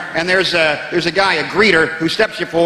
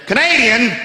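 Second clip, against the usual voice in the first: higher, puzzled one-word question; a lightly voiced old royal, baffled; Prince Philip mishearing; 6 semitones higher, slower than usual. Prince Philip mishears comedian, leaning forward with a lightly voiced puzzled question. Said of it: "Prince Philip leans forward and says".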